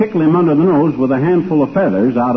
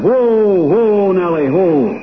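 calling to a horse; 4 semitones higher, slower than usual. Acted. Driver halting the sleigh horse.

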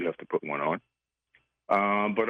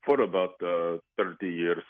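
lightly put-on Greek accent, disguising his voice; mystery guest hides his real voice behind a Greek accent. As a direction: caller playing a guessing game, in a light fake Greek accent. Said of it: "That was my new Greek accent".

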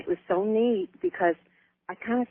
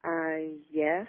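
phone held away; 2 semitones lower, 4 dB quieter than usual. Real, not acted. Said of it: "speak up good and loud".

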